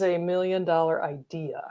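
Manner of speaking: hushed conspiratorial whisper. Real, not acted. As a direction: whisper it like a secret. Conspiratorial aside.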